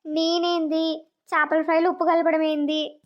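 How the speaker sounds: milk it like a wronged innocent, slowly; fake innocent crying. Daughter-in-law fakes tearful innocence to the family, slow and whiny. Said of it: "ఇప్పుడు చూడండి నా performance".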